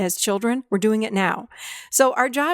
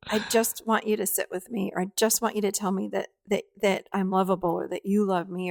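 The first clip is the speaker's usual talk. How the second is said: put-on inner child; 5 dB quieter than usual. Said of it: "inner child will say things like".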